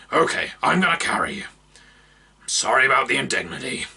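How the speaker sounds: high, fast gruff apology; brisk and apologetic. Acted. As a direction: orc woman apologising as she lifts him. Orc apologises, lifts him.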